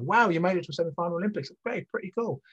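high, fast impressed voice; impressed friend. Retold or imitated. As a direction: gush like an impressed acquaintance. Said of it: "someone said to me".

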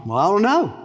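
lightly voiced baffled thief, rising then dropping; a hint of a bewildered newcomer; clueless thief. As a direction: give a puzzled verbal shrug. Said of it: "The thief's like".

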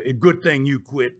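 put-on deep deadpan threat from a hard old man; gruff old wrestler voice. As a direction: drop way down as the menacing old wrestler. Dutch voiced in retold story.

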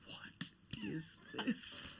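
very high, slow, breathy mock voice; imitating little sister. Retelling how little sister reacted to the doodled paper, squeaky imitation. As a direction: squeak it like a baffled kid sister. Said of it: "she goes".

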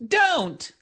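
high-pitched, halting, stuttering confrontation; timid stutter. Acted. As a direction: squeak out a stand, tripping over words. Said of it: "you have a stutter".

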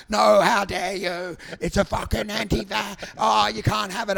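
mock an outraged online ranter; hammed-up indignant protest; mock outrage. Acting out angry deleted commenters.

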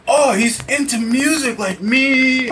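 high, drawn-out delight; slow, high-pitched gushing; delighted reenactment. Retold or imitated. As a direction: act out a thrilled discovery, slowly. Acting out delighted reaction to discovery.

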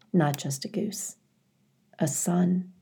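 soft whispered aside; tender whisper. A narrator's reading. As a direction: breathe it out in a whisper. Narrator tender reveal.

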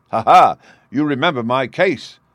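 proud laugh bursting out loud. A narrator's reading. Convict boasts of his famous case, proudly laughing. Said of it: "said he proudly".

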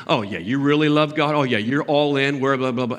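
mock their devotion, running it together as droning chatter; mocking serpent. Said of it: "Have you ever heard that serpent talk?".

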